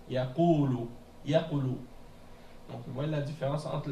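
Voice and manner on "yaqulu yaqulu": "Yaqulu" with a prolonged u vowel; "Yaqulu", prolong the vowel after q; long u. Shown as a demonstration. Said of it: "On prolonge la voyelle".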